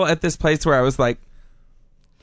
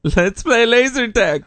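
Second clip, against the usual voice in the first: high, slow, eager invitation; mock enthusiasm; 7 semitones higher, 3 dB louder than usual. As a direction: propose it with exaggerated eagerness. Acting out her post-surgery enthusiasm.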